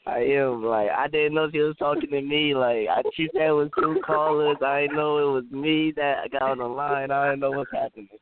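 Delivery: talking while high; hazy, stoned rambling; stoner. Real, not acted. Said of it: "why you sound like you high?".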